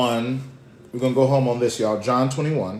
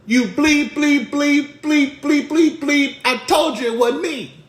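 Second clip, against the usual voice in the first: high, loud hammed-up tirade; cussing someone out; 14 semitones higher, 9 dB louder, slower than usual. Peter furiously denying his accuser, loud mock cussing-out. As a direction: fire off each censored curse hard. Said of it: "Peter cussed him out".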